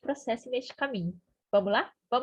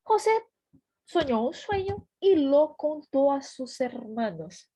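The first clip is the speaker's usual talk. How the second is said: raised, deliberate Spanish verse reading; scripture read-aloud; 3 semitones higher, 5 dB louder, slower than usual. Acted. Teacher reading the verse to learners, slow deliberate narration. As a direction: read the verse slowly, high start on the name.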